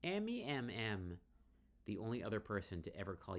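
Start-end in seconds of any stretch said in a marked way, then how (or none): 0.0-1.2 high, loud sing-song calling of a name; giddy calling. Acted. Drunk friend teasing with a nickname. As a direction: call her name out tipsily.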